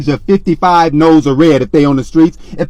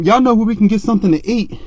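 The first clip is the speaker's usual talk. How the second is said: crazy street voice; 4 semitones higher than usual. Retold or imitated. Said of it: "I made one more crazy face".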